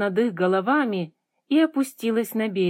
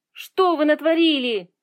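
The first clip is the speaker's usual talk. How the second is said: higher, louder cry of dismay; wailing yell; 5 semitones higher, 5 dB louder than usual. A narrator's reading. Girl seeing the waterfall dry up, wailing yell. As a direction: cry out aghast. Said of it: "завопила Жасмин".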